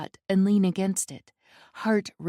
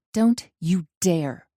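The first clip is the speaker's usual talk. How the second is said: louder, slow, biting warning; angry warning; 6 dB louder, slower than usual. Acted. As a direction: spell out each word as a threat. Heroine confronts Sid.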